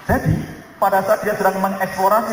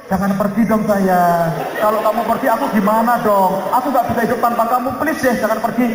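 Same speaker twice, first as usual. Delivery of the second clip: pleading husband; 3 semitones higher than usual. Retold or imitated. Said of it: "Harapan istri adalah respon suami".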